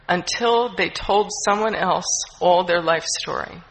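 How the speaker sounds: measured reading from the book; earnest recovery-literature reading; reading aloud. Acted. Reads from the big book.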